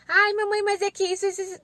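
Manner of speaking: high-pitched child's excuse, imitated; protesting child. Daughter answering mum's correction, imitated high-pitched protest.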